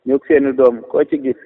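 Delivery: measured verse reading with falling refrain; poem recitation. Real, not acted. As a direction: recite praise verses line by line, dropping on the refrain. Recites own praise poem.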